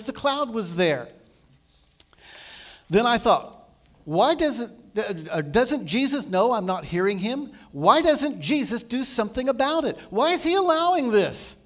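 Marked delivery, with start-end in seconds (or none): 4.0-11.6 exasperated questioning. Retold or imitated. Frustrated inner cry, retold.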